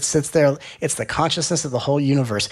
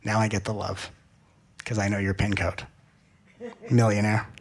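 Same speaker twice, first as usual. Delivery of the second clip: put-on low, soft, unimpressed child; cool, sarcastic indifference; disinterested; 3 semitones lower, 5 dB quieter than usual. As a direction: toss it off quietly, low and uninterested. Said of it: "disinterested because it goes".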